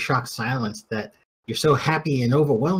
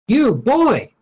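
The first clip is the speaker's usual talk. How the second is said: sharp, high summons to a stranger; calling out; 7 semitones higher, 5 dB louder than usual. Acted. Hailing the closest peasant, calling out. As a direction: call out higher and punchier.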